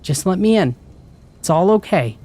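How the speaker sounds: high, soothing mom voice; gentler coaxing mother. A narrator's reading. Mom at the door after rattling it, gently coaxing. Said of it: "gentler this time".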